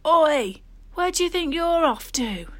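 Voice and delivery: put-on loud, high bawl after the boys. Digger yells at running boys, loud bawl. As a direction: call out sharply to fleeing kids. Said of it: "I heard a voice bawl".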